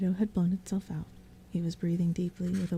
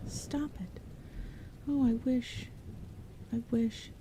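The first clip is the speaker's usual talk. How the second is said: exasperated scolding; 4 semitones higher than usual. Acted. Exhausted sister scolding screaming baby.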